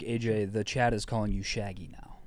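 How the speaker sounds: hushed quick aside; whispered aside. Real, not acted.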